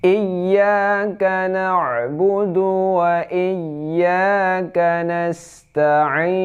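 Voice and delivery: "Iyyaka" with a held, doubled y, chanted high and slow. Shown as a demonstration. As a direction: lean on the shadda in "Iyyaka". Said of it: "iya ada tasydidnya".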